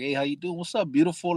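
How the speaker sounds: casual phone sweet-talk, pitched a little up; feigned casual. Retold or imitated. Inmate calling his upset visitor, pretending not to know, feigned casual. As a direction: play it cool, as if nothing is wrong. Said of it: "gotta call and pretend like I don't know".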